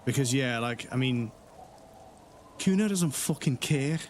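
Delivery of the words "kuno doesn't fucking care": a light imitated Geordie accent, slow and a bit higher; Geordie Kuno. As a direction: mimic the game character's Geordie twang, drawn out. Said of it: "he's got a bit of a Geordie twang".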